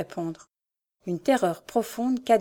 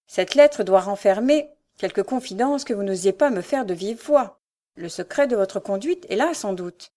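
understated stern accusation; hard voice; 4 dB louder than usual. Acted. Marquis confronting his daughter over the letter, hard voice. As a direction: accuse with growing severity. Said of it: "sa voix redevenait dure".

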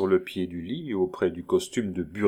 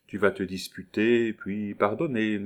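light, indulgent reassurance; easy coaxing. Acted. Neighbour coaxing the young lover, easy reassurance. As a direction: say PARDONNER gently, letting it fall. Neighbour coaxes, Roland repeats indignantly.

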